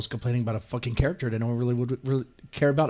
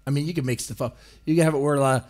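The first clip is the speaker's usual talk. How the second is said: normal talking voice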